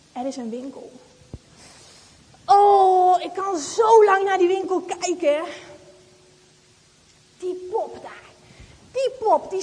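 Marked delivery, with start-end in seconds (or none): 2.5-5.4 excited shout. Acted. Girl gazing at shop window, loud delighted shout. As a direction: call out in delight at the doll.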